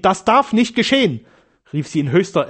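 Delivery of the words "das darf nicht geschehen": high, rising-intensity cry of horror; terrified outcry. A narrator's reading. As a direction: cry it out in desperate fear. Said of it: "in entsetzlichster Angst".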